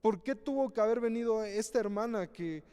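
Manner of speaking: lightly mimicked resentful questioning; jealous complaint. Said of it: "o nos encelamos el decir".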